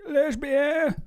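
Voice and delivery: high, loud caricature of a talk-show host; Jesse Lee Peterson. Retold or imitated. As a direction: blurt it high in a put-on voice. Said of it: "that old black man that has the, the show".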